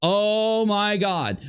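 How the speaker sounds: high, slow mock shock; imitating a shocked gasp. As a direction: drag out "Oh my God" like she scared herself. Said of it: "shocks herself so hard that she goes".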